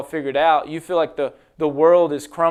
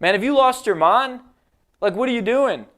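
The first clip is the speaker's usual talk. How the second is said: higher, mock-disbelieving challenge; incredulous friend; 6 semitones higher than usual. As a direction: scoff as if he's lost his mind. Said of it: "someone looks at me and says".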